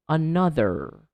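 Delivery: another with a strong "er" at the end; American R ending. Shown as a demonstration. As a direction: lean on the final R of "Another". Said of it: "clearly speak the er sound".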